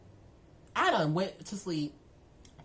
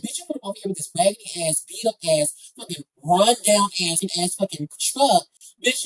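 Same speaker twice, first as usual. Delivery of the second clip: louder, fast roast of his truck; heated insults; 7 dB louder than usual. Retold or imitated. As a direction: roast him louder and faster.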